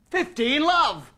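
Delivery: high, drawn-out umpire call; triumphant slow score announcement; pretend score call. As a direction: call the score slowly across the court. Calls score in pretend match.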